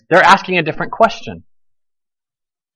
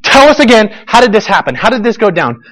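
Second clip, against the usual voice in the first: demanding Pharisees; 4 semitones higher than usual. Acted. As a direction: push him to retell. Pharisees demanding the story again.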